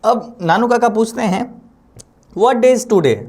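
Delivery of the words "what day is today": higher and louder, calling the question out; unusual loud voice. Retold or imitated. Old uncle calling out so the neighbour overhears, loud. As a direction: ask it loud enough for the next room to hear. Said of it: "unusual loud voice".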